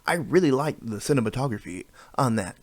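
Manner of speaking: cinematography said in a slightly different voice; odd voice on cinematography. Real, not acted. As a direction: lightly put on a different voice for cinematography. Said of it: "I made my voice different when I said cinematography".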